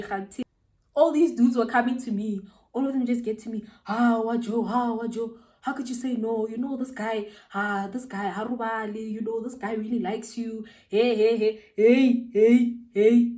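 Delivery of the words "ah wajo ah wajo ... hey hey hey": mock clamour, building to loud heys; noisy pestering. Imitating his friends pressing her to say yes, noisy and pestering. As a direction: imitate a pack of boys hassling someone. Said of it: "When I tell you the noise".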